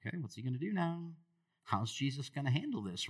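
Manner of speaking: fast worried inner voice; nervous crowd thoughts. Retold or imitated. Congregation's racing thoughts.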